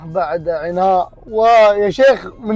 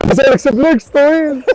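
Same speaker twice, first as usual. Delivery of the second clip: shouted with a cry in the voice; loud playful yell; 8 semitones higher, 4 dB louder than usual. Real, not acted. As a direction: call it out high and loud. Shouting at short friend playfully. (صياح عالٍ مازح)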